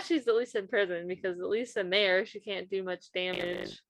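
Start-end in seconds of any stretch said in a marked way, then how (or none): 2.3-3.8 accidental robotic glitchy voice; words come out like a robot. Real, not acted. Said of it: "My voice just sounded like a robot when I said damaged".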